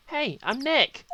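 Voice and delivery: high, drawn-out shouted greeting. Acted. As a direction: shout it slowly so the device hears. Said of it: "Maybe I'm not saying it loud enough".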